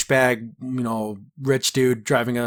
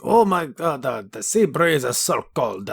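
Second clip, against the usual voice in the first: whiny Chase. Retold or imitated. Chase complaining, voiced in recap.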